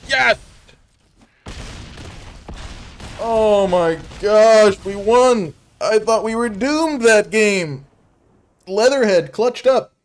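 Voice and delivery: high, loud shriek of joy; screaming in victory; shrieking jackpot winner. Real, not acted. Winning a close game.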